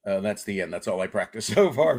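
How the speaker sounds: ending on a real laugh. Real, not acted. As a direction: break into a laugh at the end. Sheepish punchline on stage.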